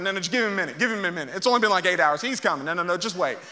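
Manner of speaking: mock-reassuring, understated sarcasm; sarcastic. Elijah pretending to make excuses for Baal, sarcastic. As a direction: pretend to calm them down, tongue in cheek. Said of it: "sarcastic on another level".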